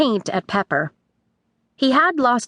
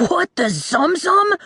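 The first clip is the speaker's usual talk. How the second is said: put-on higher, startled boy voice; boy shrieking; 8 semitones higher than usual. A narrator's reading. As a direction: yelp it like a shocked kid. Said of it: "the boy shrieked".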